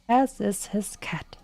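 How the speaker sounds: hushed, breathy whisper; whispered afterthought; whispered aside. Real, not acted. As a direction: murmur it under your breath. Quiet aside after kill.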